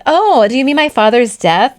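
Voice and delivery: heavy sarcasm, mock-innocent question; sarcastic. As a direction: drip sarcasm, playing dumb. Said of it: "Like, heavy on the sarcasm".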